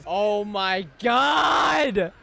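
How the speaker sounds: slow, stretched-out exclamation; awestruck cry. Real, not acted. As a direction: draw it out in amazement. Awed by the episode.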